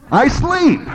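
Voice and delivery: high, drowsy mock of Brent's sleepy voice. Preacher mimics Brent saying he sleeps, high and drowsy. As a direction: tease the sound of a sleepy man. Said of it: "Sound like Brent".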